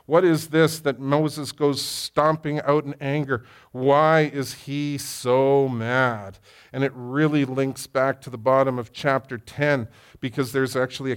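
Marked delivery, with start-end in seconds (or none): 0.1-6.4 slow puzzled musing. Retold or imitated. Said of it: "I thought to myself".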